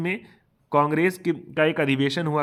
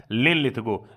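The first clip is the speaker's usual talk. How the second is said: slow, each syllable of लिन लिथगो spelled out for memorising; drawn-out name for rote learning; slow dictation; 4 semitones lower, slower than usual. Shown as a demonstration. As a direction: say लिन लिथगो slowly so students can cram it. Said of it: "रटे रहिए कि".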